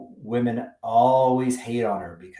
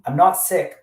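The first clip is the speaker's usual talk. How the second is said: high, louder dismissive protest; her breezy denial; 8 semitones higher, 8 dB louder than usual. Retold or imitated. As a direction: brush it off lightly in her voice. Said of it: "and says".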